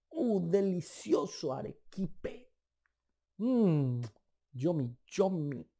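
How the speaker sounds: slow, soft, dreamy savouring; quiet, slow mm-yummy of someone tasting dulce de leche; savouring treat. Pretend. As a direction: let the sweet melt in your mouth as you say it. Savouring sweets in memory.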